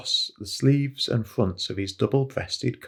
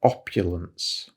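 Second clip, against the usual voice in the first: opulence said slowly and with weight; opulence, spelled out for a learner; pointing out a word; 4 semitones lower, slower than usual. Shown as a demonstration. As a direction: lean on opulence, slow and deliberate. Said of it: "Now that's another good word".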